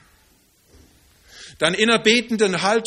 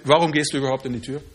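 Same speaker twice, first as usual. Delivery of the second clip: lower, quick throwaway question; quick lower aside; 4 semitones lower, faster than usual. Retold or imitated. Friend asks why he opens the door, quick and low. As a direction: rattle it off lower, almost in passing. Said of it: "bis jemand zu mir sagte".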